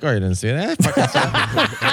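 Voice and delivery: mocking taunt. Mocking the guy in story.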